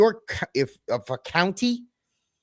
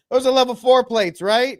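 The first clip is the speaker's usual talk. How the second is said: high, loud put-on voice; squeaky hammed-up question; mock guy voice; 10 semitones higher, 6 dB louder than usual. Guy in the woods pressing the fake agents, high mock voice. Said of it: "the guy's like".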